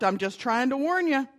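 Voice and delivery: a hint of a bird's squawk; squawking parrot. Parrot warns the burglar, mild squawk. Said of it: "and then squawked".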